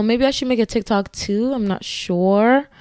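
normal talking voice

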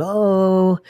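loud, high answering shout; call-and-response answer, shouted; crowd response yell. Retold or imitated. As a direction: bark it back like the whole group. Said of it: "you were supposed to respond with".

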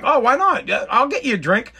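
retold no-offence-meant questioning; friendly offer. Host offering a guest a drink, friendly. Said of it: "I wasn't even being a dick".

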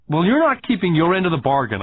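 put-on a boy close to crying, bursting out; blurted, near tears. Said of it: "I blurted out, nearly in tears".

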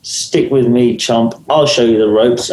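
mock old-hand confidence; acting connoisseur. Showing a new actor the ropes, mock-cocky connoisseur. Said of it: "as if I'm some kind of acting connoisseur".

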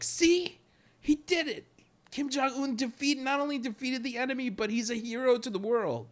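high, excited mock loyalist; mock North Korean praise. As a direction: gush like a brainwashed loyal citizen. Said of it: "North Korean people are just like".

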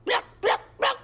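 very high hen clucks; hen clucking. Shown as a demonstration. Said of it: "most interesting sound that comes to your mind".

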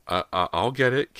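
high, stammering offer; hesitant. A narrator's reading. Girl offers to fetch tools, hesitant stammer. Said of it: "Callie said hesitantly".

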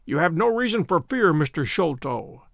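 gentle reassurance, slowing on the name; calm a frightened man; kindly. Acted. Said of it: "said Holmes kindly".

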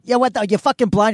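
high-pitched irate outburst; angry driver. Retold or imitated. Angry driver continues berating pedestrian.

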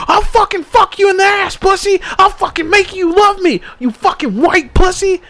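high-pitched imitated tirade; mock furious boxer. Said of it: "He's like".

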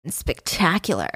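drawn-out, over-the-top admiration; unhinged gushing. Retold or imitated. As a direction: gush slowly as an unhinged drunken guest. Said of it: "he's very unhinged".

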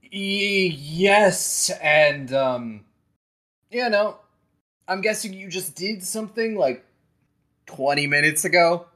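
wry message. Acted. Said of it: "a message being like".

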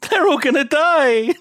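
high-pitched cackling delight, imitated; imitated laughing taunt, pitched high; mock gleeful laughing. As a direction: crow it on the edge of laughter. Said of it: "like, laughs and he's like".

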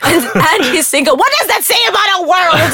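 talking through laughter; amused mock outrage, voice rising high; laughing. Real, not acted. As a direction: crack up while joking. Jokes while laughing.

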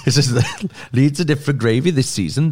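laughing through the Welsh line; cracking up while repeating it. Real, not acted. Rereads quote while laughing.

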